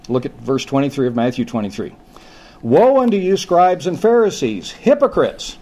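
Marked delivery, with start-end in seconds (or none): 2.6-5.6 rebuking. Acted. Preacher reads Christ's rebuke.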